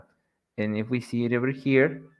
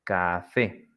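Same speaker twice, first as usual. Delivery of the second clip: "café" slowly as ca-FÉ, rising at the end; stress on last syllable; 5 semitones lower, 3 dB quieter than usual. Shown as a demonstration. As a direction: separate "café" and lift fé. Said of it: "like in the examples".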